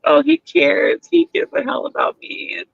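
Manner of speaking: high, dreamy mock swoon; starry-eyed gushing. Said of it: "she's all starry-eyed and stuff, and she's all like".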